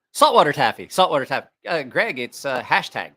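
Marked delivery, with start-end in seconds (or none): 0.1-1.5 plain. Shown as a demonstration. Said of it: "There you go".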